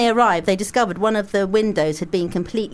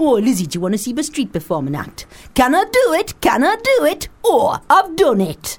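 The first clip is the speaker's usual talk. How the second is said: comedian's street performer; 4 semitones higher than usual. Acted. Imitating a comic mocking street performers, high showy shout. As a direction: call it out like an over-eager street act. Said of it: "Dave Johns' take on t-, the street performers".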